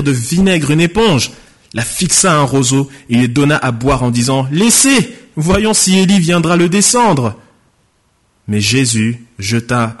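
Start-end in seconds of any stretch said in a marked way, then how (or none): 4.5-7.4 taunting call. Acted. Bystander taunts while offering vinegar.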